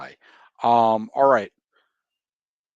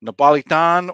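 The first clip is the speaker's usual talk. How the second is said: Napolitan said with a louder mock Italian lilt; Italian accent; 3 semitones higher, 9 dB louder than usual. Quiz host naming Naples pizza in a mock Italian accent. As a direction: give Napolitan an Italian-American flair. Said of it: "putting on this accent".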